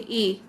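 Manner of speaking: a single drawn-out long "ए"; vowel demo. Shown as a demonstration. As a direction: hold the ए vowel for students. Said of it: "ए की sound आ रही है". (लंबी ए ध्वनि का प्रदर्शन)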